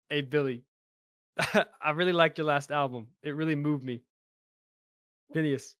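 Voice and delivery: lightly put-on New York accent; a hint of New York accent, laid-back. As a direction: slip into a casual New York accent for a smooth appeal. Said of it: "What is this accent you're doing?".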